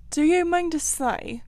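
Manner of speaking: high, loud incredulous cry; excited. A narrator's reading. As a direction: burst out in agitated disbelief. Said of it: "cried the excited rat".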